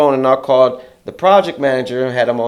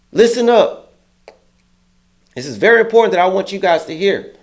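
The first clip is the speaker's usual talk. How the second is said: mock boss speech; 5 semitones higher than usual. Manager addressing crew.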